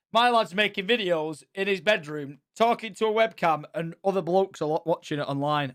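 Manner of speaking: lightly put-on Yorkshire accent; mild Yorkshire voice, retelling; Yorkshire dad impression. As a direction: imitate a dad with a touch of Yorkshire. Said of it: "sounds like he's from Yorkshire".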